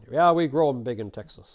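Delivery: loud, boasting Texan cowboy; proud Texan, voice pushed out; Texan drawl. Acted. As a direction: brag big in a Texan drawl. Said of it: "that Texan drawl, right?".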